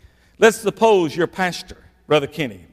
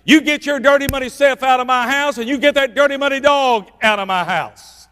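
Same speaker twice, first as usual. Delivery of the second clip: higher, firm scolding of the husband; in no uncertain terms; 4 semitones higher than usual. Retold or imitated. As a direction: tell him off and mean every word. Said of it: "in no uncertain terms".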